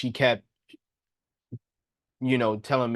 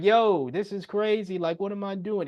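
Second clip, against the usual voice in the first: incredulous; 7 semitones higher than usual. Retold or imitated. Protesting to the principal.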